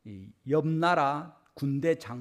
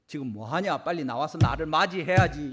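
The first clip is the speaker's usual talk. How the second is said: a proud general's impatient demand, a bit louder at the end; imitating haughty general; 4 dB louder than usual. Naaman impatiently demanding that Elisha come out, mildly haughty. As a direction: call the prophet out like you're owed it. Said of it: "이렇게 하고 있는 겁니다".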